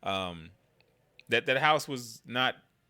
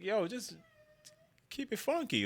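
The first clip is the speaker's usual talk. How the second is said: high hyped yo; 10 semitones higher, 4 dB quieter than usual. Real, not acted. Hyped self-talk, high.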